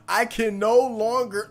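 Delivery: loud, declaiming the line for him; hammed-up shout of the ending; mock dramatic finish. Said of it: "I finished the rest of it for him".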